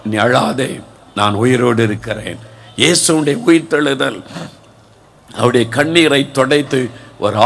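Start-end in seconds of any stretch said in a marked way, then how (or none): 0.1-2.4 gentle Jesus voice. Acted. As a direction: hush her tears tenderly. Jesus voiced comforting weeping disciple.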